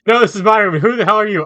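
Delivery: high, loud furious yell; angry shout. Acted. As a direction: shout right into his ear. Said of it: "Someone had just shouted in my ear".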